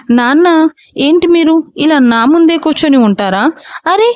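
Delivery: a grown son whining furiously; angry protest. Acted. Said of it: "కోపంగా అన్నాడు అగస్త్య".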